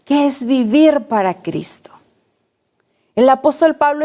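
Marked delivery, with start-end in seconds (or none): 0.1-1.9 whispered question; susurrado. Shown as a demonstration. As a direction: whisper it to each listener. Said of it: "respóndete tú ahí". (pregunta susurrada)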